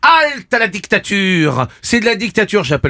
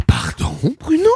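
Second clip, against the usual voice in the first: mock crying; 6 semitones higher, 4 dB quieter than usual. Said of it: "C'est impressionnant ce jeu d'acteur".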